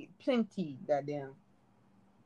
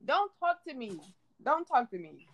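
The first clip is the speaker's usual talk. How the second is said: fading dismissal. Shown as a demonstration. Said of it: "Sometimes people just need to do that".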